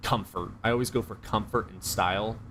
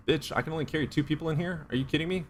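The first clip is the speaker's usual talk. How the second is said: mock outraged supercar owner; 7 semitones higher than usual. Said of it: "supercars are just like".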